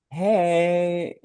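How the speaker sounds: high, long drawn-out hello; chill greeting. Retold or imitated. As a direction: imitate an unfazed, airy greeting. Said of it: "it's all gonna be chill".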